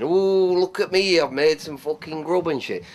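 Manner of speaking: a light mock of a showy TV chef; mocking TV cooks. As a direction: sneer at celebrity cooks with a prissy "Ooh". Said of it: "them fucking cooks going".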